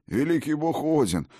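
high, gushing servile tavern keeper; grovel, pitched high and eager; fawning innkeeper. Acted. Innkeeper fawns over Odin.

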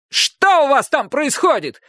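high, slow cranky voice; grumpy neighbour. A narrator's reading. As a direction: call up crabbily from below. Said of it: "сварливый голос".

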